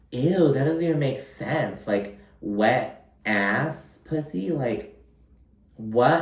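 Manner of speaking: drawn-out, disgusted, puzzled voice; hammed-up, grossed-out confusion; mock disgusted Erin. Vlogger mimics Erin grossed out by the slang.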